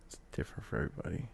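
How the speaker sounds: fast unvoiced whisper; whispered repeat. Shown as a demonstration. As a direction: whisper it quickly to yourself.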